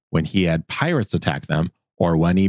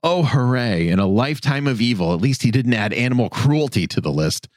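deadpan sarcastic jab, a bit higher; dry sarcasm; 4 semitones higher than usual. Acted. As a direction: lay the sarcasm on lightly. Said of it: "joins in on the sarcasm train".

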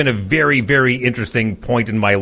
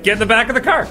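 police order; 12 semitones higher, faster than usual. Retold or imitated. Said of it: "They're like".

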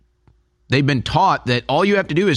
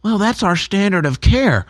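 mock smug answer; 6 semitones higher than usual. Witness's smug stock answer.

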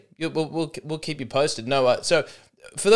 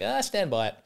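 unrepentant South African, higher and softer; South African accent; 4 semitones higher, 4 dB quieter than usual. Acted. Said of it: "a lot of South Africans like".

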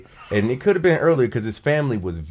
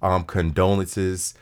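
solemn condolences; 7 semitones lower than usual. Real, not acted. Offering condolences for Chadwick Boseman.

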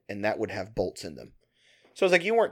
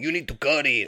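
put-on Cheech accent; 3 semitones higher than usual. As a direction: put on a mild stoner-comic accent. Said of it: "kinda like Cheech".

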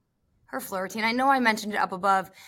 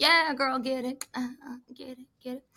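hyped cheering; 3 semitones higher than usual. Retold or imitated. Commentator reliving her cheer for a gymnast, hyped. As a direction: egg her on, then let it fade.

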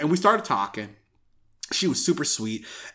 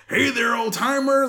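higher, cheery hello; friendly greeter; 8 semitones higher than usual. Retold or imitated. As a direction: greet an old fan brightly. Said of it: "greeting older fans".

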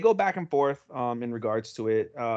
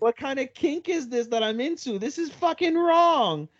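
higher, flustered self-scolding; guilty excitement; 12 semitones higher than usual. Retold or imitated. Saki peeping on the hug, flustered and higher. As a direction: squeal at your own guilty pleasure. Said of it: "and she's like".

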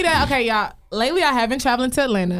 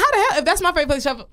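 incredulous laughing retort; 7 semitones higher, much faster than usual. Retold or imitated. Retold incredulous reply, laughing.

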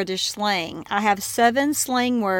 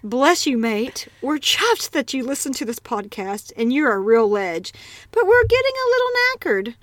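British slang sign-off. Shown as a demonstration. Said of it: "special sentence for our listeners".

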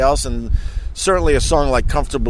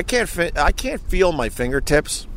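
numb lips from the cold; 4 semitones higher than usual. Real, not acted. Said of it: "so my words are gonna come out a little mushy".

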